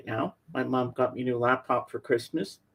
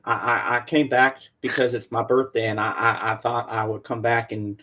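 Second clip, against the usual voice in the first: singer impression. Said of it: "I'm a ghost".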